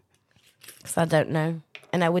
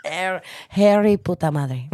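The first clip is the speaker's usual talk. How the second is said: laughing shout; 2 semitones lower, 5 dB louder than usual. Real, not acted. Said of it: "mocking the attempt".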